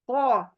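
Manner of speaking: क said thick and heavy; a full, back-of-the-mouth क. Shown as a demonstration. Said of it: "मोटा आया". (मोटा क)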